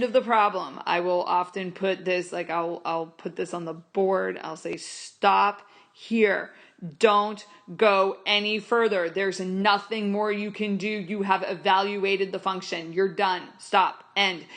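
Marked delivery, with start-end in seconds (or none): 4.8-14.4 emphatic warning. Retold or imitated. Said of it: "I'm emphasizing it".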